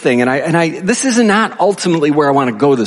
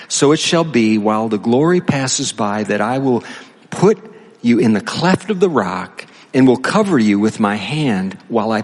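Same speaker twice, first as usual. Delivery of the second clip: scripture reading. Acted. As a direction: read the passage deliberately, phrase by phrase. Reads scripture aloud.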